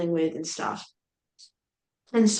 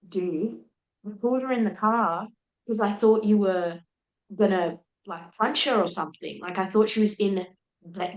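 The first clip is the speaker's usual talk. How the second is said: heated retelling of a telling-off, only mildly raised; retold angry tirade; 3 semitones higher than usual. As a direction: rip into him, but at storytelling volume. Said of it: "screaming at him".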